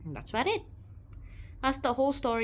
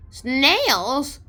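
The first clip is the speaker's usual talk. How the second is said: shocked question; 4 semitones higher, 8 dB louder than usual. Real, not acted. Learning escargot is snails.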